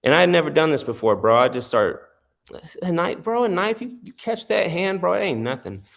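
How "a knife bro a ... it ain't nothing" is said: mock challenge. Retold confrontation over a knife.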